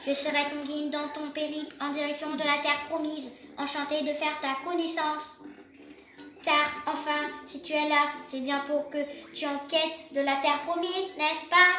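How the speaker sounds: lightly robotic reading of the game guide; a hint of a robot announcer; half robot voice. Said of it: "Je vais essayer de faire une voix de robot".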